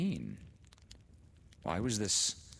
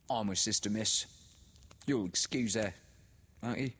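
put-on higher, louder, knowing old woman; said meaningly; 5 semitones higher, 4 dB louder than usual. A narrator's reading. The sister explaining the widow to Laura, meaningly. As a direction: say it with heavy meaning. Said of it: "She said meaningly".

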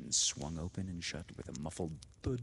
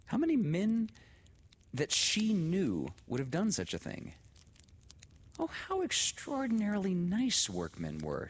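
excited; 12 semitones higher than usual. A narrator's reading. Laura's delighted inner thoughts.

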